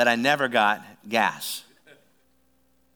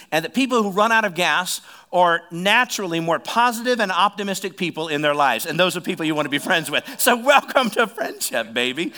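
loud, high rallying sermon voice; preaching at full force; 5 semitones higher, 7 dB louder than usual. Acted. Pastor rallying the congregation to raise hands, loud. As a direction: whip up the crowd.

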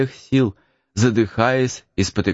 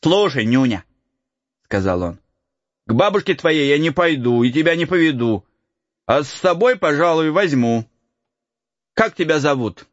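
put-on light higher boyish voice; cheeky peasant boy; 6 semitones higher than usual. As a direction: tease the lost boy. Boy character voice.

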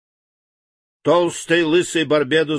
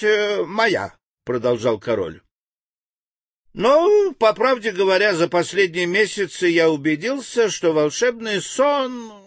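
much higher, fussy scheming king; a lightly high-pitched plotting king; 7 semitones higher than usual. A narrator's reading. King voiced in story.

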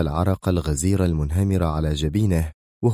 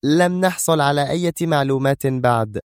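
higher-pitched firm woman's voice; stern; 7 semitones higher than usual. Acted. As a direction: refuse firmly, in a raised pitch. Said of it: "قالت منى في صرامة". (بصرامة)

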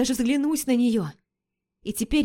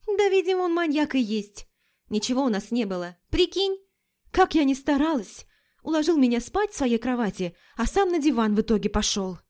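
put-on girlfriend voice; 4 semitones higher than usual. Лика, высокий голос.

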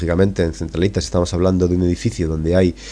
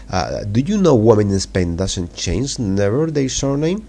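reading dialogue slowly; 2 semitones higher, much slower than usual. Acted. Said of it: "os la voy a leer".

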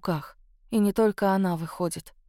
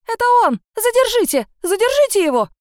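shrill high screaming accusation, much louder; shrieking; 13 semitones higher, 7 dB louder than usual. A narrator's reading. Frightened witness shrieking at the police to seize him. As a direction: screech at the police. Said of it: "заверещала".

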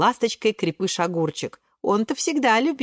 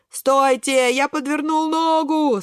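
high, plaintive cry of pain; moaning; 6 semitones higher, 3 dB louder, slower than usual. A narrator's reading. Кабачок with a twisted foot, plaintive moan. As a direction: groan it out to the others. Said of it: "стонет Кабачок".

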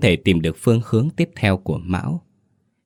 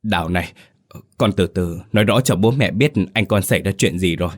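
trying to stay calm. Acted. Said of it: "cố gắng giữ bình tĩnh nhưng giọng nói cũng đã lạc hẳn đi".

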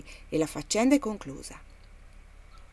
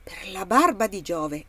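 slow, louder amazed oath; admiring exclamation; 5 dB louder than usual. Acted. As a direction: savour the surprise, drawn out. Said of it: "esclamò il mercante preso d'ammirazione". (esclamazione stupita e ammirata, lenta e più forte)

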